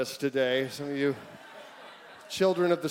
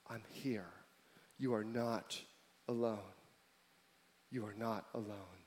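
gentle voice of God. Acted. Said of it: "hear his whisper".

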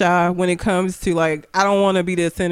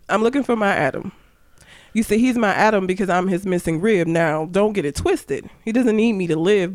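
spoken word poetry. Shown as a demonstration. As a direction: deliver it as spoken word verse. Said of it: "I guess I'll do it spoken word style too".

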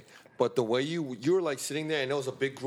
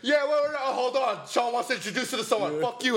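imitating friends; 7 semitones higher than usual. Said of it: "cut our conversation like".

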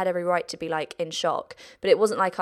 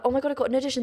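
hopeful excitement; 6 semitones higher, much faster than usual. Retold or imitated. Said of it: "you get that hope".

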